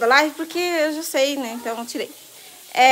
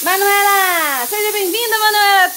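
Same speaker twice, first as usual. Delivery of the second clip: high, loud, voice breaking with feeling; emotional high welcome; 6 semitones higher, 4 dB louder than usual. Shown as a demonstration. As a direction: cry out the welcome, nearly sobbing. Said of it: "deixa eu falar de novo".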